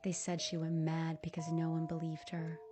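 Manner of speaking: half-whispered ghost story; spooky hush, mostly whispered; dramatic whisper. Retold or imitated. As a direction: drop to a hush for the scary part. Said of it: "I said with a dramatic flair".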